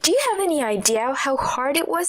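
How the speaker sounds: sharp retort. Acted. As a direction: cut him down, sharp and indignant. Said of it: "I retorted sharply".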